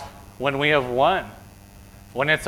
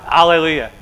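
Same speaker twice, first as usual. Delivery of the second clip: louder, lifted cry of victory; shouted demonstration; 3 semitones higher, 5 dB louder than usual. Shown as a demonstration. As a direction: show them how to call it out. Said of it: "We shout it".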